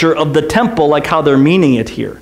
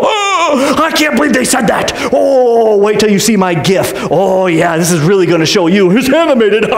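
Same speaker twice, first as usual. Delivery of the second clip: mock outrage. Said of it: "and you go".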